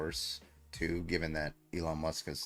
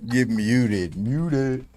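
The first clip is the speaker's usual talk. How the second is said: much louder, laughing yell; laughing shout; 7 semitones higher, 12 dB louder, much slower than usual. Real, not acted. Laughing at the singer, loud shout. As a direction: blast it through the laughter.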